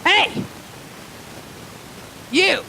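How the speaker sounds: put-on high, sudden drunken holler; mock drunk shout; drunk calling out. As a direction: holler like a drunk across a bar. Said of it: "we do speak alcoholic here".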